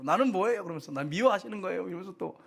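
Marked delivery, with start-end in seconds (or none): 0.0-0.6 mock protest to God, higher and louder; defiant complaint. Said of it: "하나님 앞에 대들고 막". 0.9-1.9 imitated whiny challenge to God, pitched up; mock aggrieved believer; defiant complaint. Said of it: "하나님 앞에 대들고 막".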